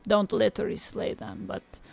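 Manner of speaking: lightly voiced old Eastern European witch reading tarot; a hint of a crackly Eastern European crone; tarot reading in a mild Eastern European witch accent. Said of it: "I'm doing an old Eastern European witch voice".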